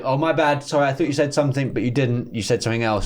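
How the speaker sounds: a touch of cheery backpedalling; light apologetic redo. Pretend. Heckler's breezy apology the comedian wishes he'd heard.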